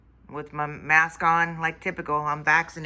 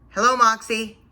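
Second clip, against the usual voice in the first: higher, sing-song hello to robot; sweet greeting; 6 semitones higher, 4 dB louder than usual. Real, not acted. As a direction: greet it like a pet.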